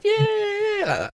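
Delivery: very high squeaky goblin yeah. Acted. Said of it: "like little goblin voices".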